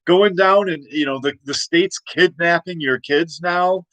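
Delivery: high, fast, outraged founding father; outraged George Washington. Retold or imitated. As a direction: sputter it out in high disbelief. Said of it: "George Washington would be like".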